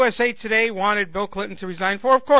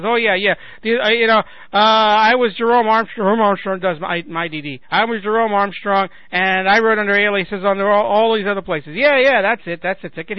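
louder, hammed-up sarcastic boasting; mock sarcastic confession; 4 dB louder than usual. Sarcastic blogger pretending to own up to every alias, mocking. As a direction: play a sarcastic phony admission, lifting "Yeah, yeah". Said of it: "sarcastically saying that".

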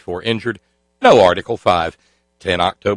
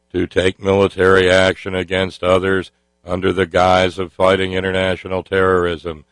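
Senator Kerry monotone. Retold or imitated. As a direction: drone it out like a solemn senator. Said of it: "even with the monotone".

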